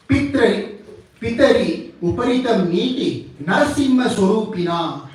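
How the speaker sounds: measured Sanskrit verse, phrase by phrase; scripture recitation. Real, not acted. Teacher quoting the only sloka from Vishnu Purana, reciting. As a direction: recite the sloka with firm emphasis.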